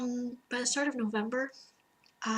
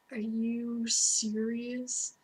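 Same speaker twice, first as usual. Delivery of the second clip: slow disbelief; much slower than usual. Retold or imitated. Retold disbelief at counselor.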